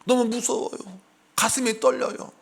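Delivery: a hint of a frightened plea from the pulpit; mock frightened prayer. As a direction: play a trembling pastor half-mockingly. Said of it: "단상에 서가지고".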